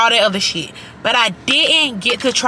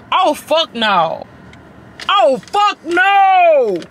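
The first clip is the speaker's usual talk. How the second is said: shout; 8 semitones higher, 3 dB louder, much slower than usual. Real, not acted. Reacting to strong drink.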